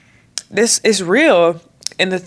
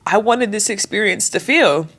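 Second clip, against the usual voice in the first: voice crack. Real, not acted. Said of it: "y'all heard that voice crack?".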